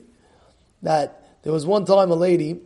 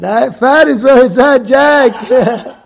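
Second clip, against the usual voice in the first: laughing; 5 semitones higher, 9 dB louder, slower than usual. Real, not acted. Laughing with Jack about fat.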